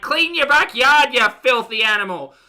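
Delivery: acted irate neighbour bellowing; angry shout. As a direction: holler insults over the fence. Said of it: "shouting from the back".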